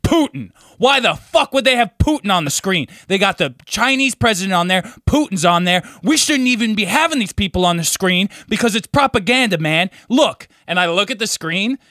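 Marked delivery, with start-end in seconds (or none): 0.0-10.5 raised, higher mock rant at the TV; mock yelling. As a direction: play the riled-up friend yelling at the screen. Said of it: "He's, like, screaming at the T V".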